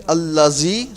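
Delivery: "Allazi" with a buzzing z in place of dh; mistaken z sound. Shown as a demonstration. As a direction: say "Allazi" with a plain English z. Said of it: "it means the meaning have changed".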